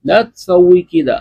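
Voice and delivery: slow careful Arabic, each word held; slow demo. Shown as a demonstration. Teacher presenting the last sentence to students, slow demo. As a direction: model it slowly for the class. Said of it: "تو آخری جملہ ہے".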